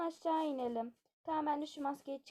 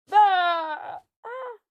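loud startled scream, higher; prank scream; 7 semitones higher, 15 dB louder than usual. Acted. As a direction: shout to scare the sleeper. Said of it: "Şimdi ben de bağırıyorum". (bağırarak korkutma)

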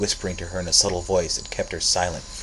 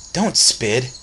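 louder protest; 6 semitones higher, 6 dB louder than usual. Acted. Boy sobbing at spider.

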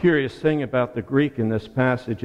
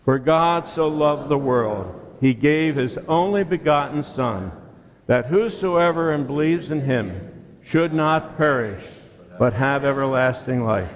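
verse recited in unison with the congregation; recited together. Shown as a demonstration. Pastor leads church reciting John three sixteen, measured recitation. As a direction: lead the congregation through the verse. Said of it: "Say it with me".

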